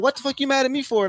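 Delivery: high, fast snap back at the big brother; indignant retort. Retold or imitated. Pledge answering his big brother, indignant. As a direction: fire back, offended. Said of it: "I'm like".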